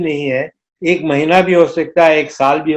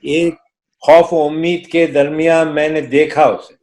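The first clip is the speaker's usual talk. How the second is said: stately nazm recitation. Acted. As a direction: recite the poem with gravity.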